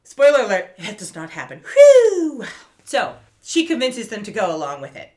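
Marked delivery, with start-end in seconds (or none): 1.7-2.5 a big, high, loud sigh of relief; loud relieved whew. Real, not acted. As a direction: blow out the relief loudly. Relief after spoiler reveal.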